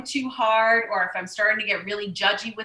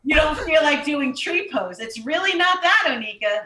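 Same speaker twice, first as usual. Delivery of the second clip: higher, louder mock rebuke; mock scolding; 4 semitones higher, 4 dB louder than usual. Telling herself off over tree pose, louder and higher. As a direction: scold yourself, half laughing it off.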